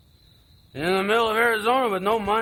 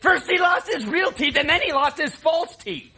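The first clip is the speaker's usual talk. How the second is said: much higher, louder, with a laugh; loud tipsy emphasis, laughing at the teeth; loud drunken insistence; 10 semitones higher, 5 dB louder than usual. Acted. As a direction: push the story on him, half laughing. Drunk brother insisting on a story.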